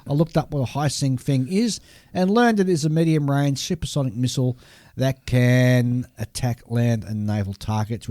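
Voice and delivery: ordinary talk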